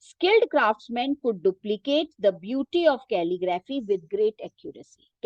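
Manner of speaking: reading a textbook sentence very slowly for students to follow; teacher reading the book aloud, slow and measured. Shown as a demonstration. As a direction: dictate it slowly, word by word. Reads textbook line aloud.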